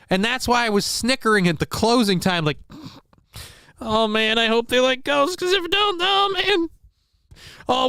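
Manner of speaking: high cartoon villain voice; mock scheming seller. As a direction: ham it up like a cartoon crook. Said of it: "she comes over the phone and says".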